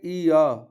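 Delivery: ई, अ said as ee then an open aw; ee-aw sound. Shown as a demonstration. Teacher showing how e-o is read, ee-aw for ई, अ. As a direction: sound out ई, अ as two vowels. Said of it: "तो पढ़ेंगे".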